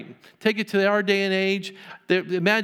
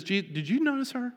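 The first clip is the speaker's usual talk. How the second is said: mock sarcastic; 6 semitones higher, 5 dB quieter than usual. Jesus mocking Simon gently.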